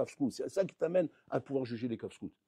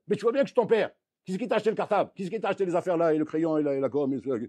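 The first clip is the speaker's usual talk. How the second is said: mock self-righteous father; 4 dB louder, faster than usual. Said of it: "lui dire simplement".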